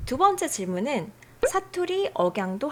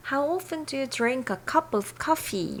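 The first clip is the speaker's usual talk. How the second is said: slow English read-out; 4 semitones higher, much slower than usual. Shown as a demonstration. English sample sentence read.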